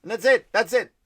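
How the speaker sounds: shouting it out; loud exasperated. Real, not acted. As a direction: belt the punchline. Punchline shout.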